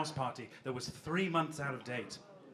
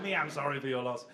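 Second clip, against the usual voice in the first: Cookie Monster; 3 semitones lower than usual. Retold or imitated. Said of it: "You sound like the fucking Cookie Monster".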